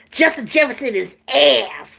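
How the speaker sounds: lightly voiced coach, deadpan; flat coach impression. Mimicking the coach's blunt press conference line. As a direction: say it dead flat like he did. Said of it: "That's how he said it".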